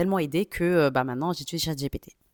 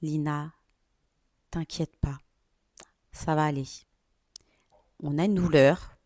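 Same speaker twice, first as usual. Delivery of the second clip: reassuring her belly. Retold or imitated. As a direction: gently soothe your own belly. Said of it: "je parlais comme ça à mon ventre".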